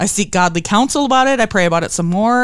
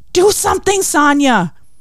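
loud, high-pitched scream. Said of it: "my mind screams".

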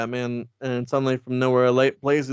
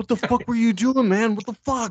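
put-on South Philly accent, pitched way up; 10 semitones higher than usual. Retelling a story about a road confrontation, voicing a guy from south philly: south philly accent. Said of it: "he's from like South Philly".

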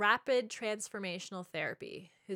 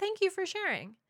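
sincere, unsnarky, genuine tone pitched very high; 11 semitones higher than usual. Showing a way to respond that isn't snarky: genuine, not snarky. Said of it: "to say this in a way that isn't snarky, that really is genuine".

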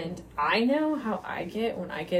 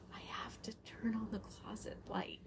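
hushed, very soft whisper; 3 semitones higher, 16 dB quieter than usual. Recounting this morning, she quotes what he whispered to her: retelling a whisper. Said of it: "And then he whispered".

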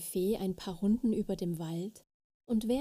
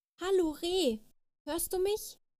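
very high, ringing, calling-out shout; 9 semitones higher than usual. Reading a story: the lost little fairy calls out to a deer; shouting. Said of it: "schrie die kleine Fee".

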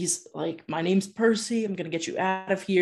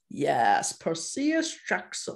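bad, weird, swooping put-on French accent. Retelling a book scene, voicing a villain: attempted French accent. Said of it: "I don't know how to do a weird French accent".

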